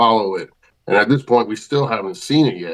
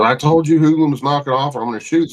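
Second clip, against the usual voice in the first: angry yell; 5 semitones higher, faster than usual. Retold or imitated. Grandpa warning the hoodlums again with the shotgun, angry yell. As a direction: yell the warning a second time, fed up. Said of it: "And he goes".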